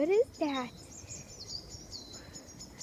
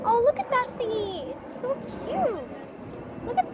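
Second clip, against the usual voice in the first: cute voice; 8 semitones higher than usual. Real, not acted. Gushing over the cat.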